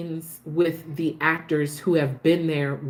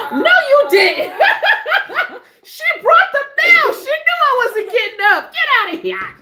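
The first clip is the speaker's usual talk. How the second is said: much higher and louder, laughing through the words; real delighted squeal of disbelief; 8 dB louder than usual. Real, not acted. Reacting to whoever brought the mail: high laughing squeal. Caught out by someone bringing mail.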